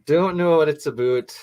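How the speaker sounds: exaggerated Canadian "aboot" for "about"; joking Canadian accent. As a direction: play up the Canadian vowel in "about". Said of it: "that Canadian joke has been used".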